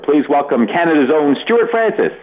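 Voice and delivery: high, bright showbiz announcer call; mock host announcement. Retelling Whoopi Goldberg's intro, a high announcer call. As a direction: hype up the name like a host. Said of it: "Whoopi Goldberg".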